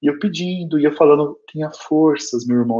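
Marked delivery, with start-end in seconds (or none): 1.5-2.8 retold plea at normal speaking volume; audible, understated urging; speaking aloud. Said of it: "eu falava alto".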